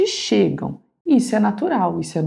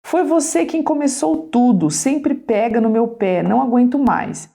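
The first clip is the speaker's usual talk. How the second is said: shouting daughter; 5 semitones higher than usual. Acted. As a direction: yell back like an angry teen.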